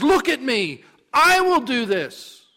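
loud, high, emphatic declaration; booming divine assurance; commanding God. Acted. God commands Moses to look.

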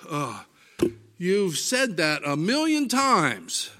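exasperated exaggeration. Preacher voicing an everyday exasperated complaint, slow and emphatic. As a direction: sigh it out like you've heard it endlessly. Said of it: "We might say".

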